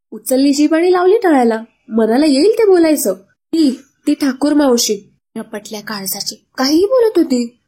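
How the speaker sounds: mother fuming to her daughter; angry rant. Acted. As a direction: vent the anger at the gossip. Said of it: "संतापात".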